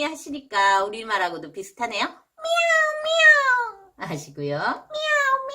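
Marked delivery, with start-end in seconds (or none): 2.1-5.5 high squeaky meow like a kitten; cat meow. Shown as a demonstration. Teacher showing kids a cat's meow, high and squeaky. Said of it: "미야우 많이 해주셨네요".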